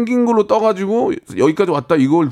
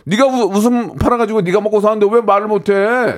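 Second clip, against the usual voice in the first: high-pitched exasperated pep talk; 답답해서 다그침; 6 semitones higher than usual. Acted. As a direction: scold a friend into speaking up. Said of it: "화내지 않는 사람을 답답해해요". (높은 소리로 답답한 척 꾸짖기)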